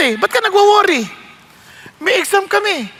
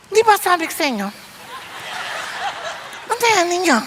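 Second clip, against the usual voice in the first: softer, hissed rebuke to helpers; hushed scolding; 6 dB quieter than usual. Retold or imitated. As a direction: scold quietly so the guest can't hear. Hostess hushes when pastor arrives. (pabulong na pagsaway)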